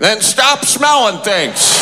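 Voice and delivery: slow, emphatic retort; lightly voiced grandpa. Grandpa Bob answering his wife's complaint, slow lightly acted retort. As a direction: drag it out as grandpa's exasperated comeback. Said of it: "Grandpa Bob would say something like".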